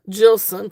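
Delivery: "Jilson" said with a J sound as in jewel, JIL-son. Shown as a demonstration. Seller telling viewers the maker's name, Jilson with a J sound. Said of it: "pronounced with a J".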